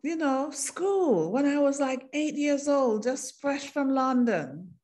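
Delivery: recalling him with sudden delight; excited recognition. Retold or imitated. Woman recognizing an old schoolmate, amazed.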